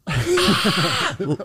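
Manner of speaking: high screech after a beat; wait, then let out a high shriek; mock delayed scream. Acting the kid's delayed scream, high screech. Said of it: "On a delay".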